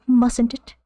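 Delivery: a touch of Dickensian orphan. Acted. Streamer repeats own quaint phrase, lightly as a Dickensian orphan. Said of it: "Like a Dickensian orphan".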